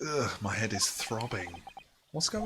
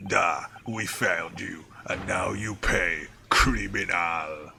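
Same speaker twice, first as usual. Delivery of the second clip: slow, louder, menacing gruff guard; gruff Russian guard; 3 semitones lower, 4 dB louder, slower than usual. Acted. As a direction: draw out criminal like a threat. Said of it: "He had, like, a really gruff voice".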